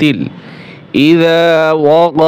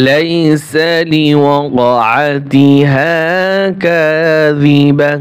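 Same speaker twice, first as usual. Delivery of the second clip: very slow intoned Quran reading; slow recitation; much slower than usual. Shown as a demonstration. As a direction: chant each syllable slowly like tilawat. Teacher recites the joined verse.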